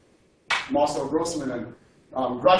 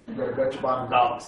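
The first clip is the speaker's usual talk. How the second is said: put-on quick New Jersey accent, a bit lower; 4 semitones lower, faster than usual. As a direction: rattle it off like a New Jersey guy. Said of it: "with a New Jersey accent".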